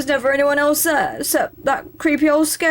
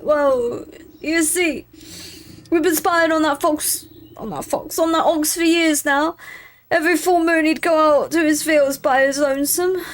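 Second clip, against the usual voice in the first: rogue voice; 5 semitones higher than usual. Acted. Rogue tells the ox story.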